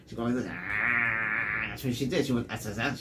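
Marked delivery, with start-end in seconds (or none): 0.5-1.7 imitated weird noise.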